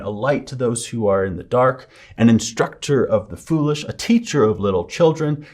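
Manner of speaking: scripture reading. Acted. Reads Romans 2:17-24 aloud.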